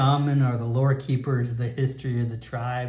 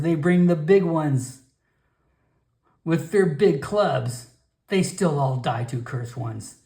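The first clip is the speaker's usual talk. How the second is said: put-on warning old shaman; 6 semitones higher than usual. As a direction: warn him off with history.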